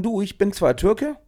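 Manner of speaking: quoting a saying. Retold or imitated. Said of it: "wie man so schön sagt".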